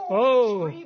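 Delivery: a short "oh" standing in for a scream; imitated scream. Preacher imitating a frightened girl in the dark, mock cry. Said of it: "ze begon te schreeuwen".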